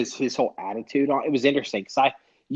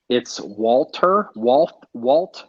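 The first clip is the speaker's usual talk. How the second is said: put-on German-accented WALTER, slow and tentative; groping for the German way to say Walter; mock German correction of Walter; attempted German accent; 3 dB louder, much slower than usual. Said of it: "how do you say it with a German accent".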